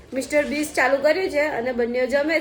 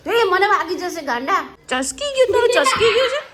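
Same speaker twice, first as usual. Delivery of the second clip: high laughing "ચસકી ગયું" like a playful telling-off; laughing mock scold; 6 semitones higher, 4 dB louder than usual. Real, not acted. Mother laughing at her son's antics, high playful mock scolding. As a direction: tease him through a laugh, much higher.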